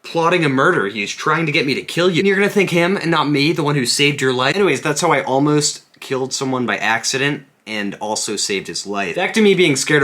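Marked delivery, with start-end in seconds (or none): 0.0-4.6 raised-pitch, incredulous retold protest; mock indignation. Rescuer protesting to the old man he saved, mock indignant. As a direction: plead your case with comic outrage.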